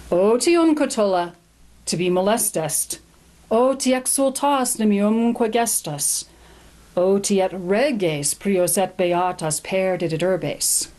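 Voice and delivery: slow, measured Latin recitation; poem reading. Shown as a demonstration. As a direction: read the Latin verse aloud with weight. Reads the Latin poem aloud.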